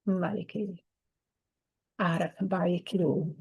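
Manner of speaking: low, murmured incantation in an unknown tongue; channeled language. Real, not acted. Channeling her guide to viewers, a murmured incantation. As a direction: let the sounds come as if channeled.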